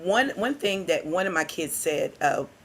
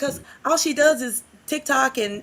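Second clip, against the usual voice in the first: higher, lightly voiced kid's complaint; child complaining; 6 semitones higher than usual. Teacher voicing a pupil's grievance about his mother, mildly plaintive. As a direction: imitate an upset child explaining himself. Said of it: "he started crying".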